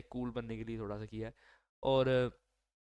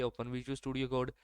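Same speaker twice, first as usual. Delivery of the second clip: slow command to assistant; much slower than usual. Shown as a demonstration.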